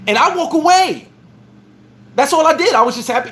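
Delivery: amused high recap. Real, not acted. Laughing recap.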